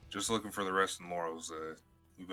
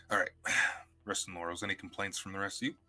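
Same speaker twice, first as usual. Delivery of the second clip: usual speaking voice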